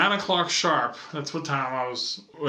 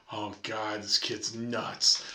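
lower, much softer and slow exasperated aside; Mom's weary aside; 7 semitones lower, 6 dB quieter, much slower than usual. Retold or imitated. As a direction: mutter it like a tired mom. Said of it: "Mom's just looking at me like".

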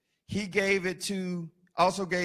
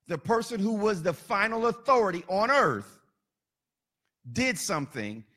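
building preaching list; 2 semitones higher than usual. Acted.

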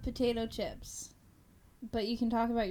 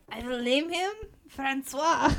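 fake French accent; 2 semitones higher, 4 dB louder than usual. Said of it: "let me try".

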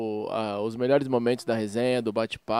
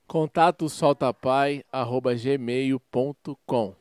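slow dictation; slower than usual. Shown as a demonstration. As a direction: dictate the email slowly. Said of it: "Qual que é o e-mail".

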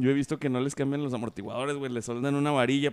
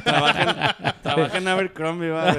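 laughing; 3 semitones higher, 5 dB louder than usual. Real, not acted. Laughing while exposing a fake.

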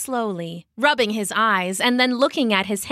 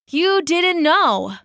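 slow, sighing words; heavy sigh; 8 semitones higher, 5 dB louder, slower than usual. Acted. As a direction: sigh it out wearily. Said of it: "he said with a heavy sigh".

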